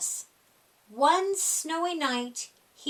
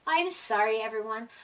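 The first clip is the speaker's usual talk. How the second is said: sorry; 5 semitones lower, faster than usual. Acted. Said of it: "Groundhog hung his head".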